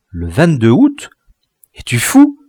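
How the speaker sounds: alarmed, rising in dread; anguished fear. A narrator's reading. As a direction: cry out in sudden fear. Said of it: "avec une expression d'angoisse et d'effroi".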